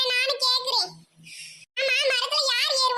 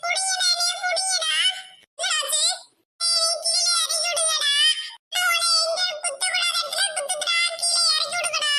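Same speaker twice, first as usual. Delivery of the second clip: panicked pleading; 4 semitones higher than usual. Acted. Stung boy begging to come down.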